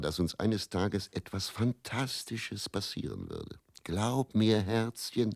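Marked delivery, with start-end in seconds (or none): 3.8-5.4 a light touch of Teddy's cheery voice; mildly voiced cheerful manager; Teddy reassuring. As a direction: coax her along. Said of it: "glaubte er unbeirrbar".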